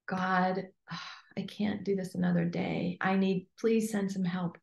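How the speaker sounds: soft, weary plea with a sigh, slowing at the end; desperate prayer. Retold or imitated. Coach voicing someone's real prayer, soft and worn out. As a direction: pray like you can't go on another day. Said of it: "I mean".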